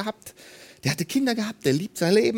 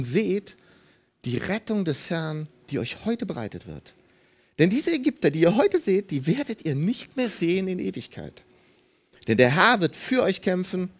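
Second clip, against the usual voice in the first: calm Moses. Retold or imitated. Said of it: "Er sagt zu den Israeliten".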